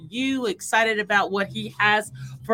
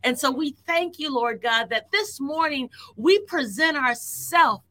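fervent prayer; 3 semitones higher than usual. Acted. Prayer building to fervour.

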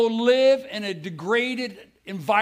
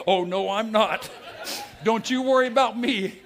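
gloating stayer; 4 semitones higher than usual. Retold or imitated. Preacher mocking the man spared from mission field, gloating laugh. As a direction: tease them from the stadium edge, laughing.

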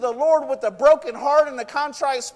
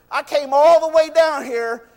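raised, indignant protest; indignant Naaman; 4 dB louder than usual. Retold or imitated. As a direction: lean on ALL in a mild outburst.

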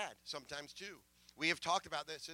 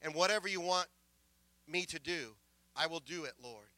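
retold plea to God, raised at first, then easing; earnest prayer; 3 dB louder than usual. Young convert praying at the altar to be saved, earnest plea. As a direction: pray it out urgently, as the convert at the altar. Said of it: "He went to the altar and prayed".

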